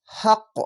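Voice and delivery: হাক্ক with the final ক bounced upward; qalqalah bounce. Shown as a demonstration. Teacher demonstrates the qalqalah bounce to pupils. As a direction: knock the last ক of হাক্ক out with a little push. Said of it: "এখানে কলকলা হচ্ছে".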